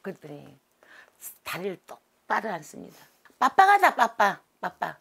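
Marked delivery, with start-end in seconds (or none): 3.4-5.0 put-on high, loud baby talk, then slow; the child spirit babbling. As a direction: babble like a toddler, drawing out the end. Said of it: "얼라 소리가 나옵니다".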